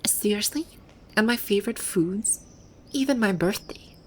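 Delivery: string of astonished questions; indignant disbelief. Acted. Finding her private details in concept art, indignant disbelief. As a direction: react to each discovery with fresh disbelief.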